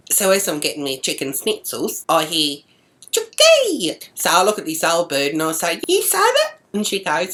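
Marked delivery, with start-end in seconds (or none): 3.1-4.0 high-pitched loud heckle; imitated yell. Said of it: "three voices yelling out". 5.9-6.5 high-pitched challenge; acted accusing question. Confronts old bird in retold exchange.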